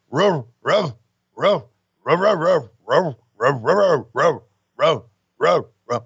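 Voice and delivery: barking like a dog, roof roof; dog barking imitation. Voicing Rick Steiner's promo to Mean Gene, barking like a dog. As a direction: bark it out like an excited dog. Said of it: "I understand you bark".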